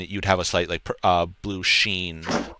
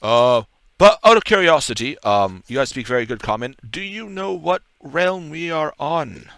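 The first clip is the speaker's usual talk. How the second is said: curious guard; 7 semitones higher, 3 dB louder than usual. Acted. Guard voiced, curious question.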